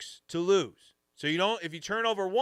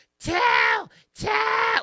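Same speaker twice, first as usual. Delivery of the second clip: shrill, very high, loud screaming; 7 dB louder than usual. Retelling a girl on the show screaming it at the speaker, imitating a girl screaming. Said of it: "like screaming it at me".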